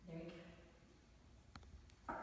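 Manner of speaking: slow soft unvoiced whisper. Real, not acted. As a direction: breathe it out as a whisper. Encouraging patient during tongue test.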